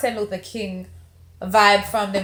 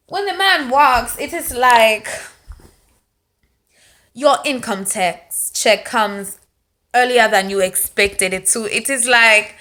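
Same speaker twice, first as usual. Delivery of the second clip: excited gushing; 2 semitones higher, 5 dB louder than usual. Acted. Reviewer gushing over Chadwick's walk, excited and loud. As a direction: rave about him like it's a windfall.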